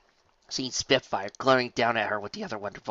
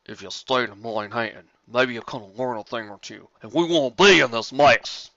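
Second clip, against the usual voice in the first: Big Mac yelling; 8 dB louder than usual. Acted. Big Mac blaming Applejack, voice rising to a yell. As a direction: build to a yell. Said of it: "Big Mac yelled".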